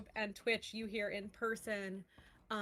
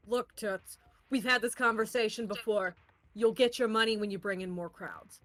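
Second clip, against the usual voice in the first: condescending boss; 6 dB louder than usual. Acted. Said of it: "and he goes".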